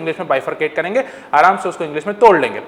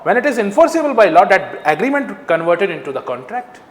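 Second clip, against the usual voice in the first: slow reading; much slower than usual. Shown as a demonstration. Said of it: "धीमे धीमे पढ़ना है".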